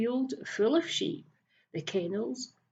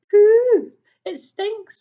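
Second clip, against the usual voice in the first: 1 disgusted; 12 semitones higher, 14 dB louder, slower than usual. Acted. Thief digging in the muck.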